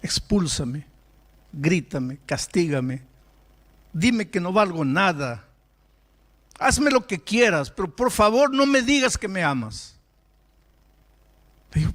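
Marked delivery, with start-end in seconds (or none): 0.0-9.9 imitating a crying boy begging, voice climbing; retold sobbing plea that swells toward the end; tearful plea, building. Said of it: "Comenzó a llorar y me dice".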